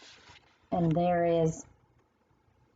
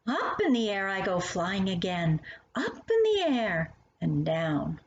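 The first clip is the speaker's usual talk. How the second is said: swaying sing-song reading of the verse; poem recitation; 3 semitones higher than usual. Acted. Reading The Swing to a young child, sing-song recitation. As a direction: read it like the motion of a swing.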